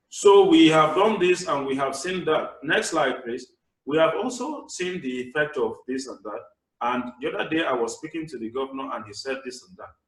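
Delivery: flat, droning monotone read; monotone presenter. Shown as a demonstration. Presenter to audience, dull monotone droning. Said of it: "present in a monotonic voice".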